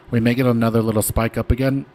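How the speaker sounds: speaking between hiccups; hiccuping. Real, not acted. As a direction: hiccups breaking into the words. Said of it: "I'm hiccuping".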